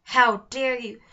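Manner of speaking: loud angry roar; troll bellowing at the intruders; furious troll shout. Acted. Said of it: "the troll shouted".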